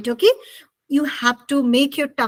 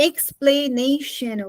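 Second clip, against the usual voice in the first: "Explanation" slowly, in four separate parts; divided into syllables; much slower than usual. Shown as a demonstration. Teacher showing how the word divides, "Explanation" syllable by syllable. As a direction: break "Explanation" into ex-pla-na-tion, slowly. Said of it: "how you have divided this word".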